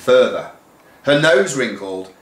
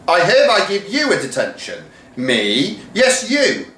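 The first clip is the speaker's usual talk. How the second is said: high, quick flustered protest; deputy head in two minds; arguing with herself; 10 semitones higher than usual. Acted. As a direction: switch between stern and shocked selves. Argues with herself.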